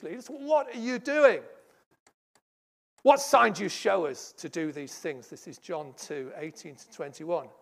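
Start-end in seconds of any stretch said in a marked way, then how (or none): 0.3-5.3 indignant challenge. Acted. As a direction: press him for a sign. Leaders challenging Jesus.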